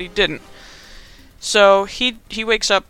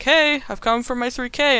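brightly raised pitch, retold eagerness; high-pitched imitation of an excited kid; mock excited; 6 semitones higher than usual. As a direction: claim your prize eagerly, lightly acted. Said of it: "he's excited".

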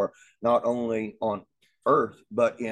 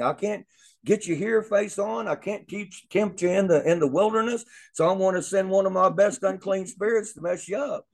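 higher-pitched, lively talk as the tempter plotting; lightly voiced scheming Satan; 6 semitones higher than usual. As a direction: voice the devil's frustrated plan, lightly acted.

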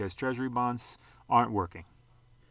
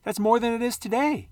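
mock whine; 11 semitones higher, 5 dB louder than usual. Mocking whining investors.

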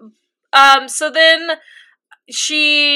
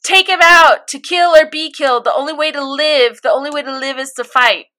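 retold yell; 3 semitones higher than usual. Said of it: "yelling at Mikasa".

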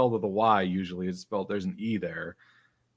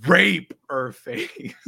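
slow, loud, higher blurt; really loud; 8 semitones higher, 6 dB louder, much slower than usual. Retold or imitated. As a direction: read the name out loud, very slowly. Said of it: "she says really loud".

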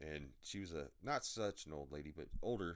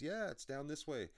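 much higher, friendly helper voice; imitated front-desk lady; 10 semitones higher, 3 dB louder than usual. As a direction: lift the pitch to quote a helpful woman.

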